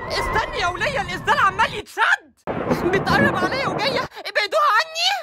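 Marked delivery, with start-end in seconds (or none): 2.8-5.1 panicked plea. Acted. Woman begging the family to pull the storm off her, panicked. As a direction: squeal for help as the wind grabs her.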